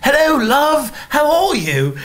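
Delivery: loud, high fake English holler; hammed-up English shout to a distant window; yelled English accent. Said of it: "I would always yell".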